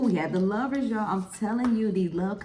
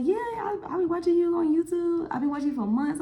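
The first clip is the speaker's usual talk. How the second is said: much higher, gushing fan voice; imitating the fan; 12 semitones higher than usual. Fan telling the YouTuber she watched for months, high and eager. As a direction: play her as the starstruck fan. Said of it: "And she was like".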